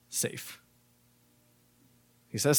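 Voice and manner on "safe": put-on breathy whisper of a small child; whispered safe. Father retelling his son's answer, in a whisper. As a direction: breathe it like a toddler. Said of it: "And he said".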